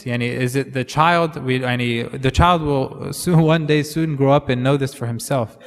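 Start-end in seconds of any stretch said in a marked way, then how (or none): none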